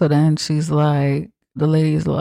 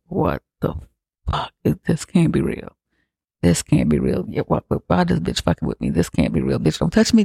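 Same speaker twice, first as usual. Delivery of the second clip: freaking out; 3 semitones higher than usual. Retold or imitated. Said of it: "she is losing it".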